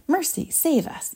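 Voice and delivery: high, drawn-out cry for mercy; panicked yell. A narrator's reading. Mother pleads for rescue, panicked yell. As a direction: wail it slowly, pitch up. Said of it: "yelled Missus Beauregard".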